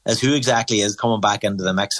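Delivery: normal talking voice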